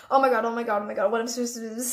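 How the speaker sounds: fast, panicked gabble, re-enacted; anxiety attack. Can't see her friends at breakfast, mock panicked gabble. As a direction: rush it into a mock panicky blur. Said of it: "I was having anxiety attack".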